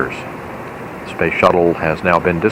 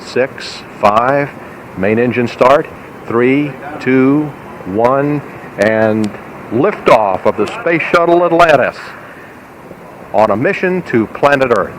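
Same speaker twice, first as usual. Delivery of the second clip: rising excitement into liftoff, higher at the end; counting down to go; 4 semitones higher than usual. Real, not acted. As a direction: count down steadily, then lift at liftoff.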